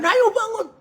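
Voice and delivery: high, sudden yell; acted abrupt high-pitched call; startling wake-up call. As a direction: jolt a sleeper awake. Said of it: "tiba-tiba dikagetin".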